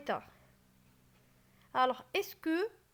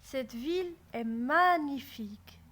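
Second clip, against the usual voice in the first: admiring. Shown as a demonstration. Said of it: "je suis admirative".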